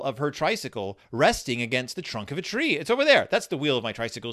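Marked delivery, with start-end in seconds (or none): 2.8-4.3 spotting her lost trike at last; excited Sister Bear. Retold or imitated. Reading Sister Bear aloud to viewers, excited and quick. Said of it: "she says".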